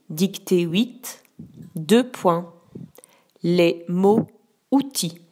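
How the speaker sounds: slow, clear dictation voice; dictating. Shown as a demonstration. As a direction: dictate each word distinctly. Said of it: "je vais d'abord te dicter".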